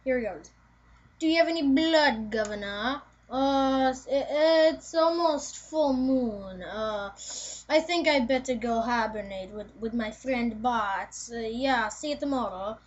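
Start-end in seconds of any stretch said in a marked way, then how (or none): 1.2-12.8 put-on amateur Dracula accent; lightly put-on Dracula voice with a homemade accent. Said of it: "do an accent on Dracula".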